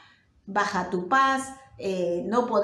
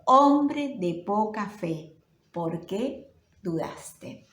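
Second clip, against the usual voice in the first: gentle rebuke; much slower than usual. Acted. Jesus holding Peter up, slowly scolding his doubt. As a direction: chide him slowly, with sorrow more than anger. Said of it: "lo reprendió".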